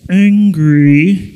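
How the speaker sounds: loud, drawn-out mock anger; cartoon anger. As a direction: stretch it out in a cartoon villain voice. Echoes the cartoon voice.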